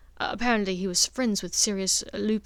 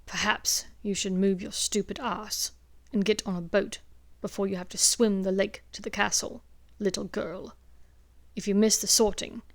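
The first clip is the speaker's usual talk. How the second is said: angry sneer. Acted. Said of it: "with an angry sneer".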